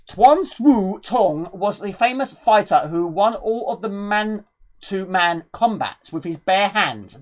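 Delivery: lore reading. Acted. Gamer reading the game's backstory to viewers, storyteller style. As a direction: read the ancient tale like a narrator.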